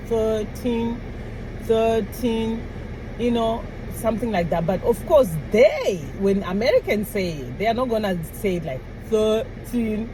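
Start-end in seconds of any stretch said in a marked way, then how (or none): 0.1-2.6 put-on THIRTEEN evenly split into THIR and TEEN; careful thirteen. Shown as a demonstration. Copying how they say it, careful two-part THIRTEEN. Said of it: "that's how they say it". 9.1-10.1 put-on THIRTEEN broken into THIR and TEEN; exaggerated thirteen. Shown as a demonstration. Mimicking her own careful way, exaggerated two-part THIRTEEN. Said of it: "like what I'm doing".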